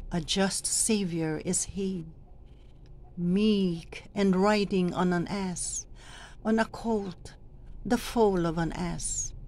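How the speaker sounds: measured, solemn reading in separate phrases; scripture proclamation. Shown as a demonstration. Lector practices the reading from Zechariah, measured proclamation.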